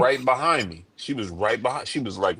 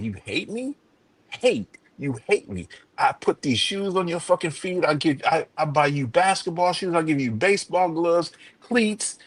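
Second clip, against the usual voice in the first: wounded mother; 5 semitones higher than usual. Retold or imitated. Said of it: "She's like".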